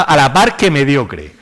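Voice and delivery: "a la par que mediocre", slow, leaning on the "A"; acento en la A. Retold or imitated. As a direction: slowly quote "a la par que mediocre", stressing the misplaced accent on "A". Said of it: "con acento ahí en la A". («a la par que mediocre», lento y recalcando la «A»)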